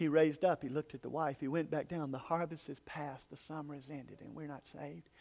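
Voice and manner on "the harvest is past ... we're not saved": barely audible, very quiet, faint, weak voice. Storyteller recounting words a man heard repeated, imitating a faint voice. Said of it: "he could hear a faint voice going".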